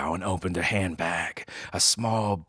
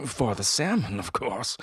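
snooty bored cat; 4 semitones higher than usual. Acted. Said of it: "said the cat".

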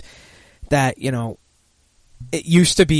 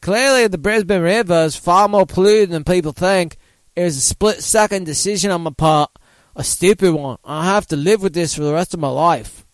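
put-on Australian accent; 4 semitones higher than usual. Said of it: "can I do an Australian accent?".

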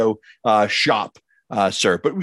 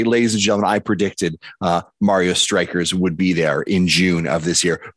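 wrestling promo; 5 semitones lower than usual. Pretend. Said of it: "it's like a wrestling promo".

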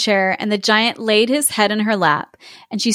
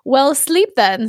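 sassy; 4 semitones higher, slower than usual. Acted. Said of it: "said she".

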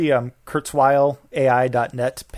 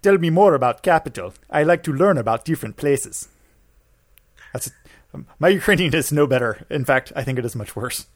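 mock Ukrainian accent. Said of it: "I wanna do the Ukrainian accent".

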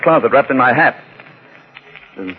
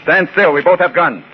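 firm command; 7 semitones higher than usual. Acted. Holding a suspect at gunpoint.

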